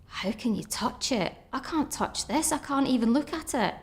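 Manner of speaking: balking at touching the bag, tearfully; tearful panic. Retold or imitated. Patient balking at changing the colostomy bag, mildly tearful. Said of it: "I was crying".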